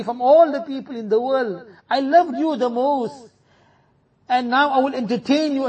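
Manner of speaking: a hint of a tender, welcoming grave; lightly voiced grave greeting a beloved soul; loving grave. Grave welcoming the righteous person, lightly voiced and tender. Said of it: "let the qabr say".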